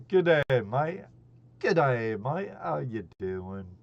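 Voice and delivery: hammed-up Australian greeting; bad Aussie accent. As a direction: do a terrible Aussie "g'day, mate" accent. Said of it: "terrible Aussie accent".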